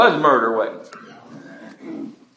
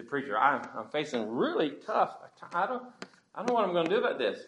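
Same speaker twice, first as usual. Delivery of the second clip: soft, hushed and hesitant; worried churchgoer; 3 semitones higher, 10 dB quieter, faster than usual. Acted. Churchgoer confiding in the preacher about hard times, soft and hesitant. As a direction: drop much softer and stumble into the worry. Voices a struggling church member.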